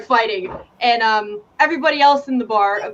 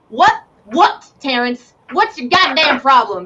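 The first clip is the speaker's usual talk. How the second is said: sharp, higher, irritated challenge; irritated snap; 3 semitones higher, 4 dB louder, slower than usual. Acted. Player snaps at a sighing friend, irritated. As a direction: snap at him, fed up.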